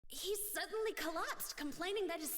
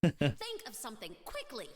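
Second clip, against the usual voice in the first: urgent shout; 5 semitones lower, 7 dB louder than usual. Acted. Urging cellmate in panic.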